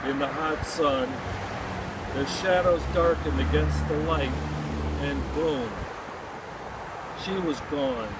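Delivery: measured poem reading with pauses between phrases; poem recitation. Acted. Poet mourning a girl killed in war, poem recitation. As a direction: recite it line by line, letting each phrase settle.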